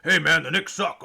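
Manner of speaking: mock drunken heckler; lightly caricatured drunk trash talk; drunk frat kid. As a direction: slur it like a frat kid taunting a rival fan. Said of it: "drunk fucking frat kids".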